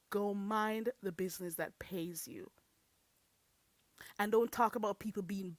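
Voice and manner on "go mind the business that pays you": whisper. Real, not acted. Dismissive whisper at viewer.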